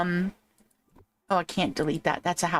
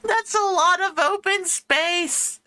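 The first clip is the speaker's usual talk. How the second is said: higher, slow giggly delivery; laughing through the words; 9 semitones higher, slower than usual. Real, not acted. Laughing at empty island.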